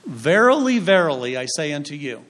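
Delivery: a touch of King James solemnity; archaic biblical intoning. Shown as a demonstration. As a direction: intone it like old scripture. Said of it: "We don't speak like that".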